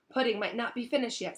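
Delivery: hopeful. Acted. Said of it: "said Ron hopefully".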